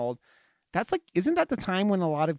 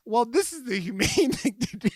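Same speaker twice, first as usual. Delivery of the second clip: higher, prim voice breaking into a laugh; mock deadpan character voice; 6 semitones higher than usual. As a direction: imitate her calm justification, laughing. Quoting the character in the film.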